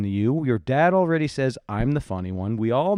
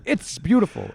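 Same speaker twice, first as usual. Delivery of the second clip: teasing mimic; 8 semitones higher than usual. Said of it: "you ran out of words".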